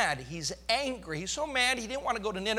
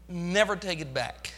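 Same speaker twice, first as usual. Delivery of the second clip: gentle promise; 3 semitones lower than usual. Acted. God's voice promising softly.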